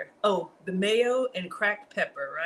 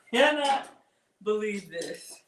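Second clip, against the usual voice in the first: exclaiming; slower than usual. Real, not acted. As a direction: burst out on Cannot. Amazed at the dish.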